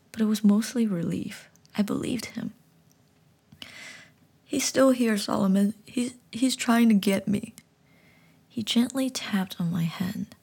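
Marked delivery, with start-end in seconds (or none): 4.4-7.5 scared, louder pleading; boy telling the frog his dad's coming; frightened child. Acted. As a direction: stammer it in panic.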